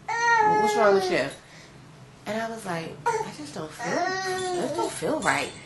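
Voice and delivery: tearful, high, breaking voice; crying. Real, not acted. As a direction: speak through real tears, slowly. Crying while retelling the scare.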